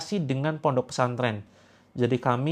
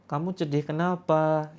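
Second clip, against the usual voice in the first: acting cute. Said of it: "sok imutlah di depan istri".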